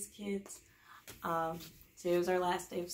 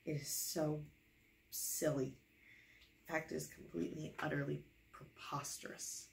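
mock exasperation; 3 semitones lower, 7 dB quieter than usual. Exhausted reader's complaint.

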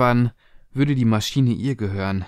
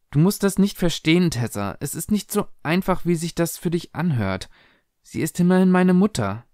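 higher, strained mother voice; pleading yet firm, pitched up; insistent mother; 6 semitones higher than usual. Acted. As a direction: make your daughter accept it. Mother firmly refuses.

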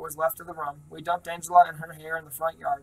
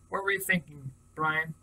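easy, concerned; 5 dB quieter than usual. Acted. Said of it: "same easy, concerned voice".

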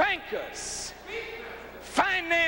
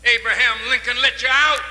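angry outburst; 3 semitones lower, 6 dB louder than usual. Real, not acted. Fiery speech to a reporter.

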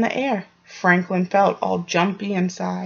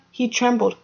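usual speaking voice

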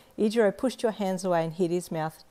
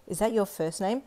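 put-on chiding child; 2 semitones higher than usual. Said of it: "you chided".

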